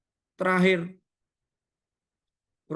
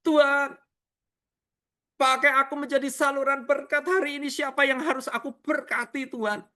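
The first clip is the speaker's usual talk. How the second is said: earnest, lifted prayer voice; sincere prayer; 9 semitones higher than usual. Retold or imitated. Preacher models the right prayer: earnest and sincere. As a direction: offer yourself sincerely to God. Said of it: "Seperti itu".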